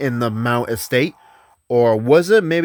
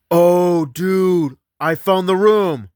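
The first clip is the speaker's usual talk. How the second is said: high, louder burst of excitement at finding the room; excited discovery; 8 semitones higher, 5 dB louder, slower than usual. Retold or imitated. Ghost hunter tells his team he found the room, excited. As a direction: blurt it out like you just found the room.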